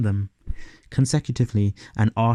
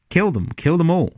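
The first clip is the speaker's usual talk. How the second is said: mock order; 6 semitones higher, 4 dB louder than usual. Real, not acted. Mock command against unlikable Doctor.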